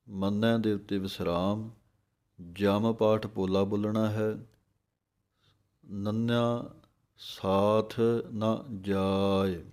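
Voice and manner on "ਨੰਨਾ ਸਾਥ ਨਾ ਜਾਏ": ਨਾ clear, ਸਾਥ ਨਾ ਜਾਏ drawn out; very slow, each syllable full; ਸਹੀ ਉਚਾਰਨ; slow correct reading. Shown as a demonstration. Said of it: "ਸੋ ਇਸ ਤਰੀਕੇ ਨਾਲ ਬੋਲਣਾ ਹੈ।".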